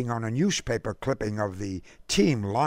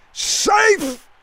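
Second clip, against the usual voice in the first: much higher, loud umpire call; umpire's cry; 6 dB louder than usual. A narrator's reading. The umpire calls the runner safe, loud cry. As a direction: belt out the call. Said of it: "cried the umpire".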